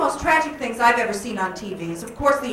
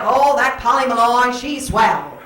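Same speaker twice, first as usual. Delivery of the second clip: 1940s fellas; 4 dB louder than usual. Retold or imitated. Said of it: "Men would all be like".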